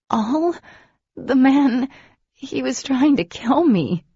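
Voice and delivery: high, loud, shocked protest; indignant outcry. Acted. Heroine to Demon after an attack, a high loud indignant outcry. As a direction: cry out that he nearly killed her.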